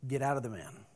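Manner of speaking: quiet, calm command; very calmly. Acted. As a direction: say it softly, with total authority. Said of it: "very calmly said".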